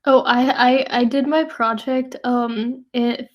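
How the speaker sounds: ordinary talk, nothing marked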